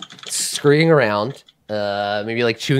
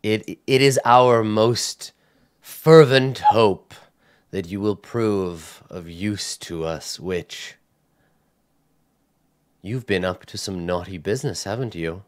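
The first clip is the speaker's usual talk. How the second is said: cold sister; 3 semitones lower, slower than usual. Acted. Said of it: "she says".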